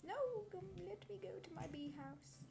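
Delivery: mock pleading. Pleading to go to bee house.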